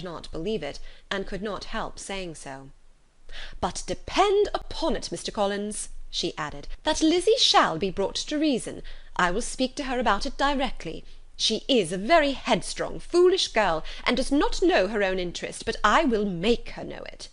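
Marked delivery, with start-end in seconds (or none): 3.6-5.9 fussy mother. Acted. Mrs Bennet reassuring Collins. 6.8-17.3 higher and louder, a mother worked up over her daughter; indignant mother. Acted. Mrs Bennet scolding about Lizzie.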